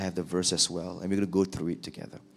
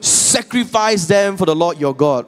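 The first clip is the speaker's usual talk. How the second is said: much higher and louder, evasive; blame-shifting Saul; 9 semitones higher, 10 dB louder than usual. Acted. Saul blaming his army to Samuel, high and evasive. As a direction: pass the blame breezily.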